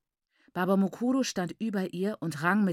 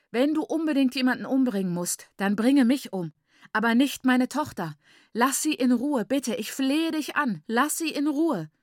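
high, raised-voice begging; pleading; 5 semitones higher, 4 dB louder than usual. A narrator's reading. Mother offering herself for her daughter, desperate pleading. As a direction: beg desperately for her life. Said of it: "bat Maiguru flehend".

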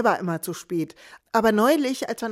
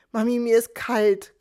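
put-on complaining child; 3 semitones higher than usual. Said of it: "klagt mein Kind".

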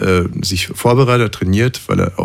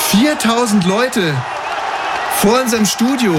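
mock excited; 10 semitones higher than usual. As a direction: play up fake astonishment. Staged surprise outside studio.

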